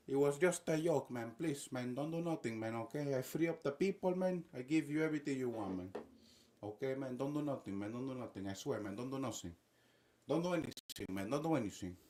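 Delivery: lightly voiced pleading; mock placating plea; Nicolás Maduro. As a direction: beg to be spared in a put-on accent. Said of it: "just begging Donald".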